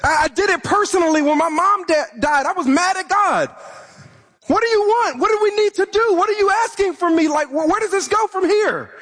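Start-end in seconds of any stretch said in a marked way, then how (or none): 4.5-8.9 higher, quick pressing questions; a son demanding answers in grief; frustrated at God. Retold or imitated. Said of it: "I was frustrated".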